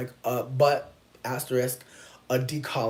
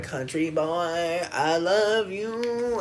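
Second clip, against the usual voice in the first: teasing swoon; 5 semitones higher, 5 dB louder, much slower than usual. Retold or imitated. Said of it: "my friend was like".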